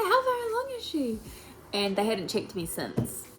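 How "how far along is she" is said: high, airy mum asking; ditzy mum. Retold or imitated. Ditzy mum asking the midwife about progress, high and airy. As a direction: keep the giddy mum voice up high. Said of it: "She's all happy and ditzy".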